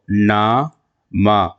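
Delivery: نا، ما drawn out slowly as separate syllables; alif-like ending. Shown as a demonstration. Teacher breaking a word up for students, long alif sound. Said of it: "الف جیسی آواز".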